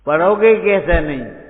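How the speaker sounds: loud, demanding rhetorical challenge; stern teacher shout. Retold or imitated. Old teacher to a lazy pupil, loud stern demand. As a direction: bark it like a strict guru.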